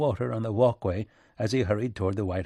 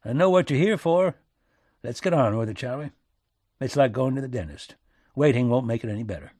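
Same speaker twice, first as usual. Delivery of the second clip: lightly voiced folksy statesman, direct; a hint of country plain-speaking, getting to business; rustic American president; 2 semitones higher, 4 dB louder than usual. Lincoln's rustic voice in story.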